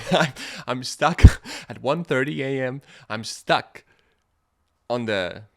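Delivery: loud, high, laughing disbelief; laughing panic. Retold or imitated. Retelling being stuck on a stranger's balcony, laughing.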